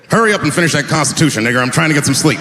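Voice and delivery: a light, fast, lazy founding father; founding fathers impression. Founding fathers drafting the Constitution, lightly voiced, hurried. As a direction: hurry the founders along, barely in character. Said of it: "This is my impression of the founding fathers".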